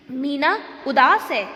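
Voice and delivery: मीना उदास है read as a question, weight on उदास. Shown as a demonstration. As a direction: ask it by leaning on उदास. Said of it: "प्रश्नात्मक कथन है".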